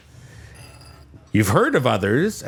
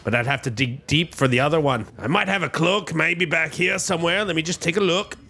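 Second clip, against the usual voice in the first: put-on Scottish accent; 2 semitones higher than usual. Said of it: "the classic Scottish accent".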